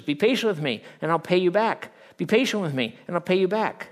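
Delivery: loud, high repeated begging; repeated plea. Acted. First servant's plea replayed by the preacher, loud and high. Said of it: "Same words".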